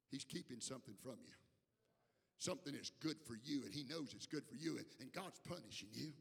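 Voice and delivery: low confiding persuasion, still voiced; mock tempter's whisper. Serpent sowing doubt in Eve's ear, mock whisper. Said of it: "he whispers in her ear this time".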